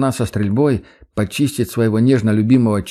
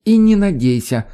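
laughing; 10 semitones higher than usual. Acted. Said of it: "заливисто хохочет эта зараза".

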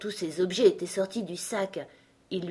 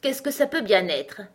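higher, louder eager exclamation; lively cry; 5 semitones higher, 5 dB louder than usual. A narrator's reading. Unicorn answering the lion, crying out briskly. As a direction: pounce on the question. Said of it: "s'écria vivement la licorne".

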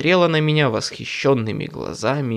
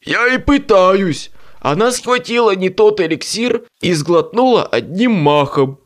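exasperated; 7 semitones higher, 6 dB louder than usual. A narrator's reading. Bob pleading, exasperated.

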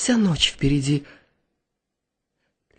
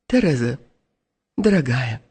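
calm and firm; 5 semitones lower than usual. A narrator's reading. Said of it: "спокойный и твёрдый голос".

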